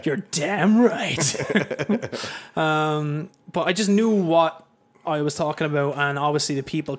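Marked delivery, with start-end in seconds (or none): 0.0-1.4 slow, louder hick voice; mock redneck bigot. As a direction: drag it out like a proud bigot. Mocking xenophobic commenters.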